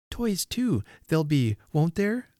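put-on high, hopeful little girl; eager child. A narrator's reading. Little girl hoping for toys, high and eager. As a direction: ask with voice pitched well up.

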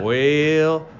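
a light, laughing Randy Velarde Texas drawl. Retold or imitated. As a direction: loose imitation of a Texas drawl. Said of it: "I will do a terrible impression of it".

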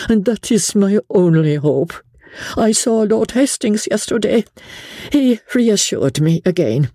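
clinging to her only hope, French lilt; French countess. A narrator's reading. Countess voiced in reading.

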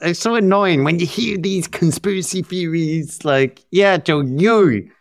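real exasperation at the clip; annoyed. Real, not acted. Podcaster griping to co-host about a played clip, annoyed. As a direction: complain crossly, leaning on the name. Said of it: "Stop getting angry about the clips".

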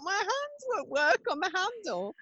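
high, whiny retelling of panic; exaggerated high-pitched distress; mock panic. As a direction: act out being helplessly stuck. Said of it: "I was getting all panicky".

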